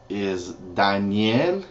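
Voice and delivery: Daniel with Spanish vowels, dahn-YEL; teacher modelling the name. Shown as a demonstration. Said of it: "It's spelled the same way".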